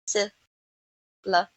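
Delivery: "Syllable" in three separate beats, long gaps between; slowly by syllables. Shown as a demonstration. Teacher counting three chin touches, "Syllable" slowly broken apart. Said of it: "touches my finger three times".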